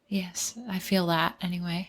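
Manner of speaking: soft whisper. Real, not acted. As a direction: whisper back softly. Answers the whisper.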